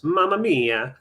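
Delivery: a quick hammed-up Italian exclamation; overdone Italian accent on the phrase; mock Italian accent. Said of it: "I can't do accents".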